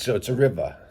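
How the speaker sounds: "river" said as rivah, no R sound at the end; dropped final R. Shown as a demonstration. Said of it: "drop the R at the end".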